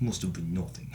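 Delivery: low, dull guard line; video game guard. Retold or imitated. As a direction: shrug it off like a bored guard. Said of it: "they'd be like".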